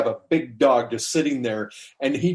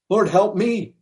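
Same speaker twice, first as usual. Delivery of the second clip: higher-pitched, insistent retold plea; 7 semitones higher than usual. Woman pleads again after no acknowledgement, insistent. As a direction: press the plea harder, pitched up.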